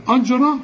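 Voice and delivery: أجرى opening on a thick backed "a"; wrong heavy hamza. Shown as a demonstration. Teacher shows the mistake, heavy hamza. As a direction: thicken the first vowel of أجرى. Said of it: "خطأ".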